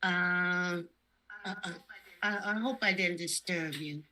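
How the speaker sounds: a polite space rabbit, timid; soft shy stuffed bunny. Pretend. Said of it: "I'm a bunny from outer space".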